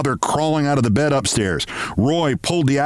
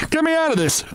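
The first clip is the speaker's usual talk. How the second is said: high bawling cry for help; bawled; 13 semitones higher, faster than usual. Acted. Trapped boy bawling to be pulled out, high desperate cry. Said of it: "I bawled".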